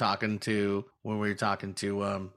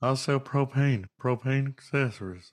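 poorly done cartoon dad impression; 3 semitones higher than usual. Speaker trying another Hank Hill impression after the last one is called the worst. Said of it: "That was the worst".

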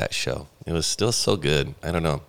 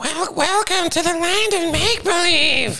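very high, very slow, loud, drawn-out weird puppet voice; 5 dB louder than usual. Imitating a puppet from the Land of Make Believe. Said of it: "I'm gonna do one of their voices".

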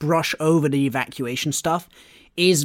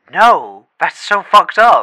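put-on appalled cry, very loud, slow and drawn-out; 10 dB louder than usual. Repeating the girlfriend's answer about dressing up as evacuees at school, imitating a horrified voice. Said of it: "in a horrified voice".

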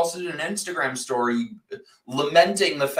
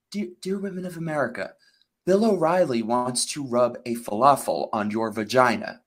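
low-pitched radio announcer voice; 5 semitones lower than usual. The speaker announces they will do their NPR voice, then does the NPR voice. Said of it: "I'm going to do my NPR voice right now".

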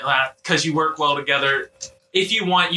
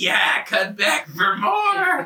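swooping little gnome moan; 6 semitones higher than usual. Voicing the gnome's reply during a game, in a moaning gnome voice. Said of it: "the gnome moans every time you".

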